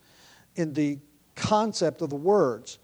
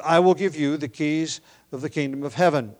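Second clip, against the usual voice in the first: quoting Jesus; 3 dB louder than usual. Retold or imitated. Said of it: "when he says".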